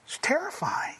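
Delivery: hushed whisper after the verdict. Real, not acted. Preacher to congregation, hushed whisper. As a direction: breathe it out, awed.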